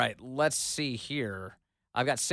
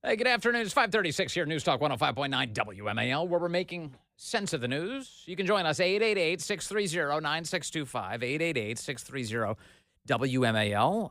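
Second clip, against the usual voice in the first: upbeat on-air station read; radio announcer; 3 semitones higher than usual. Acted.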